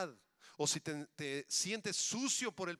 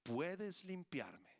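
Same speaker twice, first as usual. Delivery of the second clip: leper's plea; much slower than usual. Acted. Leper's cry voiced by pastor.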